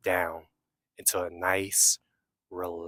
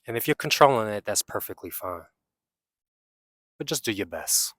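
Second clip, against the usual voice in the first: unhurried meditation guide with long pauses; guided meditation. Real, not acted. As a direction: guide them inward, leaving long silences between phrases.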